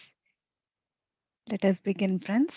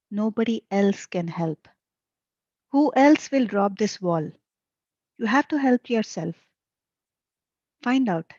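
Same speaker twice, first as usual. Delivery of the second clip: emphatic reading of questions and answers; deliberate dialogue reading with firm stresses; spiritual dialogue read aloud; 3 dB louder than usual. A narrator's reading. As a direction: read the teaching out in short, stressed phrases. Reads disciple and master dialogue.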